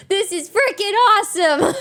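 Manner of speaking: delighted cheer; thrilled exclamation. Real, not acted. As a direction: blurt it out, overjoyed. Overjoyed about her win streak.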